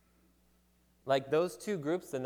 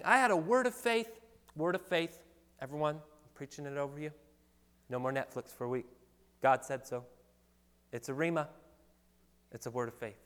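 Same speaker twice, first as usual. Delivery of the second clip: mock southern preacher. Mocking a Southern preacher proclaiming to everyone, in a Southern accent. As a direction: ham up a Southern revival preacher declaring it. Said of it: "the southern accent just comes with it".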